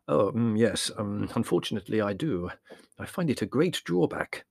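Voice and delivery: halting, apologetic admission; mild, formal scholar; hesitant scholar. Acted. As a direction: admit it haltingly with ums. Theodore's hesitant voice.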